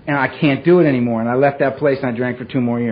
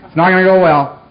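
menacing warning; 4 semitones higher, 4 dB louder than usual. Retold or imitated. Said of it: "That was the vibe I was throwing out".

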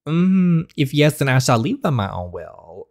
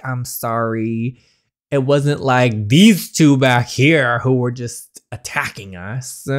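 mock caring; slower than usual. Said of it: "real friendly and caring".

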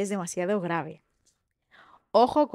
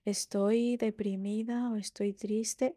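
sad quiet demo; 5 dB quieter, slower than usual. Shown as a demonstration. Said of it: "si voy muy lenta".

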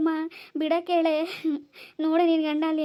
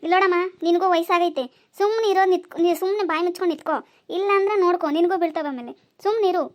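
angry scolding; 3 dB louder than usual. Acted. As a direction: bark warnings at the old woman. Scolding the old mother loudly.

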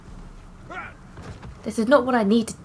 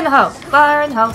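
loud "Fire in the hole!" shouted to the squad; real grenade warning shout; called warning; 2 semitones higher, 5 dB louder, much faster than usual. Real, not acted. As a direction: bark it out as a battlefield call. Calling out grenade throw.

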